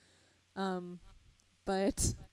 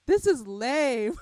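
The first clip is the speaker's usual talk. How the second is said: bored dismissal; 5 semitones higher, 9 dB louder, slower than usual. Retold or imitated. Quoting bored 2012 Turtles.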